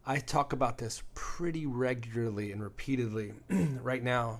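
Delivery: clearing a rough throat mid-sentence; coughing fit. Real, not acted. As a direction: talk through a tickly cough. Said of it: "hacking up a lung".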